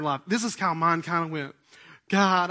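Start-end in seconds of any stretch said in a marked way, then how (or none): 2.1-2.5 retold tearful prayer. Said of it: "I'm crying on the middle floor".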